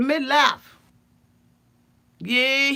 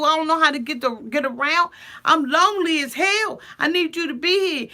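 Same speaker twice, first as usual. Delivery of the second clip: imitating a lonely wife begging; mock pleading; 5 semitones higher than usual. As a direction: beg him to come home, hammed-up. Jenny pleading with Submit.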